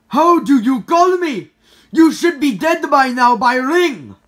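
slow, loud indignant character; gruff character voice. Acted. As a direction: bark the question, surprised. Golden Freddy answers.

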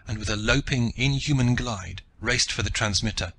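usual speaking voice

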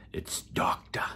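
hushed, awed whisper; reverent whisper. Acted. Comic host whispering the title to teachers. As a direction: breathe the word doctor.

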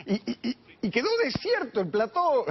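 real laughter in a high-pitched voice; high, amused, barely holding back the laugh; laughing speech. Real, not acted. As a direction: stammer it out through laughter. Laughs at emptied TV studio.

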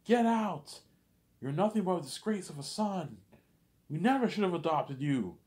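high, loud screaming rage; father disowning the boy, screaming high and loud; furious dad. Retold or imitated. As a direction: scream it down at the son like a raging father. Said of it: "He's like".

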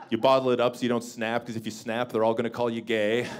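usual speaking voice

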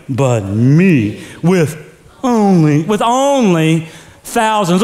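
slow, sulky "But me with only thousands"; jealous whine. Shown as a demonstration. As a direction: drag "only" out like a jealous king. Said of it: "say it with me".

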